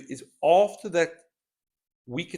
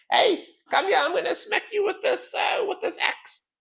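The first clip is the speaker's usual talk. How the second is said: axe-wielding brute voice. Acted. Player voicing the axe-wielding enemy, high mock snarl. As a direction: shriek the threat like a wild axe fighter. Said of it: "that's actually how she sounds like that".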